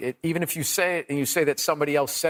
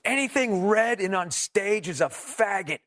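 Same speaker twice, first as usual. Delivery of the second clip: mock yell; 4 semitones higher, slower than usual. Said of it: "he just yells out, he goes".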